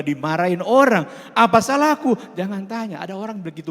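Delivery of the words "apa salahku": high, loud plea of innocence; aggrieved protest. Acted. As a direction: protest loudly as if wrongly scolded. Acts out person suddenly scolded. (protes tidak terima, suara tinggi)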